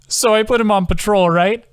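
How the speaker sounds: high, loud, giggling delivery; laughing. Acted. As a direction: laugh through the words. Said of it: "Adam laughed".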